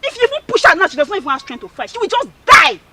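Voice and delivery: loud mocking quarrel; angry taunt. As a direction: jeer at her loudly. Heated quarrel in the farm.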